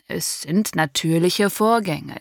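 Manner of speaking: slow, level calm explanation of natürliche Vorgänge; calm, rational. Acted. Doctor calmly reasoning with the angry father. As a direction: keep it measured and soothing. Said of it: "bitte versuchen Sie, die Sache rational zu betrachten".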